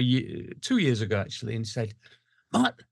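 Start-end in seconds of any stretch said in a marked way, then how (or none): 2.5-2.8 put-on a half-started Scouse accent, high and dropped at once; abandoned Liverpool accent. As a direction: start Pete's Liverpool accent, then give up. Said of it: "I can't do the accent".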